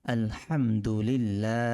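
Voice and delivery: আলহামদুলিল্লাহ slowly, with the vowel stretched by one alif; long vowel. Shown as a demonstration. Teacher shows the long vowel in আলহামদুলিল্লাহ. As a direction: draw out আলহামদুলিল্লাহ. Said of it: "এক আলিফ টান হবে".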